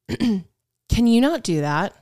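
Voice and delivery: slow, disapproving trainer; retold reprimand. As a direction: imitate a trainer's measured scolding.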